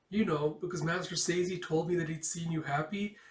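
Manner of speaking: put-on high, timid girl's voice; shy girl. Girl cutting Micah's hair, high timid voice. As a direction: ask gently, hesitant.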